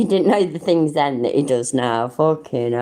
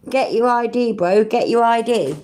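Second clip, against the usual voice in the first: higher, pushy mock cop bark; hammed-up bossy copper, pitched up; mock aggressive cop; 6 semitones higher than usual. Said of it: "and they're saying".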